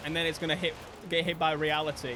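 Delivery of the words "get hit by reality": ordinary delivery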